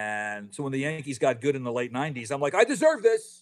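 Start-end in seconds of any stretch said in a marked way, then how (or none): 2.5-3.4 mock entitled. Retold fan's entitled claim.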